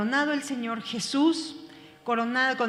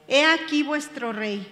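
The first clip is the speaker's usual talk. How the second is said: lightly mocking, a little louder; a touch of mockery; 4 dB louder than usual. Pilate presenting Jesus to the crowd, mildly mocking. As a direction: present the king with a hint of scorn. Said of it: "con burla".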